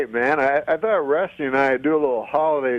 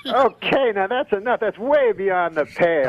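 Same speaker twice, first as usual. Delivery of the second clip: higher-pitched comic scolding; mock indignation; 4 semitones higher than usual. Ventriloquist telling off his puppet, mock indignant. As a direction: scold as if shocked, starting high.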